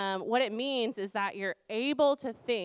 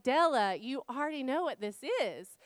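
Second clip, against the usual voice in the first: retold parental exasperation; exasperated mom; 3 semitones higher than usual. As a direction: plead with a toddler who knows better. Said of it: "I'm exasperated".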